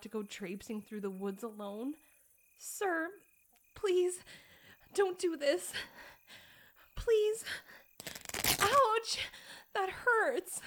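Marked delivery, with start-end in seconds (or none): 2.6-7.4 rising, louder desperate pleas; frantic pleading. Acted. Pleading escalates to pain. 8.6-9.2 high, loud yelp of pain; sharp pained cry. Acted. 9.7-10.6 rising, louder desperate pleas; frantic pleading. Acted. Pleading escalates to pain.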